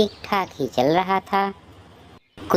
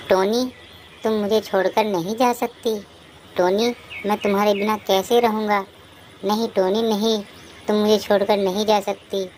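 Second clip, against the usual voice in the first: high-pitched, pleading grief; bereaved husband's high-pitched lament; grief-stricken crying; 7 semitones higher than usual. Acted. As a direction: plead in anguish with a loved one who has just died. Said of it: "आप रो क्यों रहे हो".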